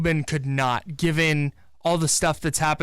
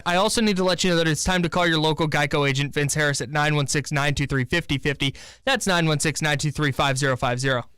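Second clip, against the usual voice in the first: ad read. Acted. Live Geico ad read.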